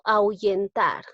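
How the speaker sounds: slow demo word. Shown as a demonstration. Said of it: "como la H no se pronuncia".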